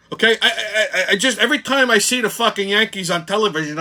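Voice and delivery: laughing through rising frustration, a bit fast; laughing in disbelief at his team. Real, not acted. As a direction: chuckle while building into the rant. Laughing while ranting about Yankees.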